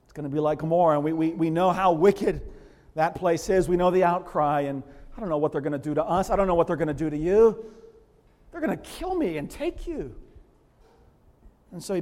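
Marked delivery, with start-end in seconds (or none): 0.0-10.1 anxious Abraham. Retold or imitated. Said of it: "you can see him going".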